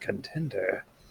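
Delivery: quiet murmur under breath. As a woman leaves, a player's character answers her, murmured very quietly under breath. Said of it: "murmur under my breath very quietly".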